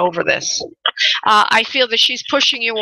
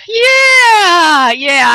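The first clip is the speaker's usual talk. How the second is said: laughing; 9 semitones higher, 8 dB louder than usual. Real, not acted. Laughing at caller's mix-up.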